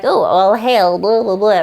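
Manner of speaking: hammed-up witches' chant, tossed away; mock witches. Witches hailing Macbeth and Banquo, mock chant. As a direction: imitate witches hailing, not seriously. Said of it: "first come upon the witches".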